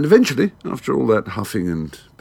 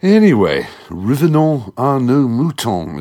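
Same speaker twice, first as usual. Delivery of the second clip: ordinary talk, nothing marked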